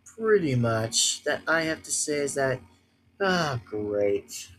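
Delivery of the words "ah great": sarcastic. Real, not acted. Sarcastic reaction to loss.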